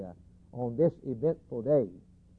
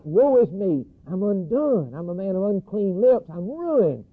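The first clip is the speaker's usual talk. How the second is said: raised, loud mock-anguished confession; impassioned lament; 5 semitones higher, 4 dB louder than usual. Preacher as the prophet who saw the Lord, impassioned lament. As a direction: voice the prophet's despair at a high pitch.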